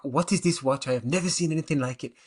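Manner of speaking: a bad, hammed-up German accent, a little fast at the end; terrible German accent. Speaker mimics a German woman admiring his watch, in a bad German accent. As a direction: imitate the German lady badly and lightly. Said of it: "That's a terrible accent".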